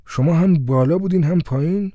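can't believe he was both people; astonished officer, voice lifting; surprised. Acted. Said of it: "با تعجب وراندازش کرد و گفت".

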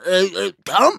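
comic shout. A narrator's reading. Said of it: "به طرز مضحکی داد زد".

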